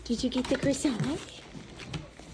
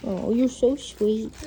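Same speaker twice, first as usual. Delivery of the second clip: slow, fond praise; slow tender praise; 3 dB louder, slower than usual. Real, not acted. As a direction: linger over the words lovingly. Praising the dog.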